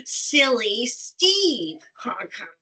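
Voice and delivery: slow, drawn-out silly name call; mildly goofy sing-out. Shown as a demonstration. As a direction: stretch it out playfully, falling on Steve. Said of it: "passing the emotion that goes to it".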